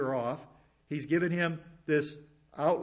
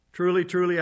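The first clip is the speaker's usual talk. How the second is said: TRULY, TRULY punched louder; solemn emphasis on each "truly", louder; emphatic; 3 semitones higher, 6 dB louder than usual. Acted. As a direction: stress both words of "Truly, truly" firmly. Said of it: "that's a way of saying emphatically".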